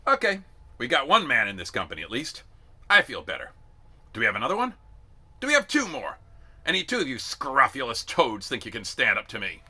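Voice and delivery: loud, high sergeant call. A narrator's reading. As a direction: call down the ranks. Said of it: "called out".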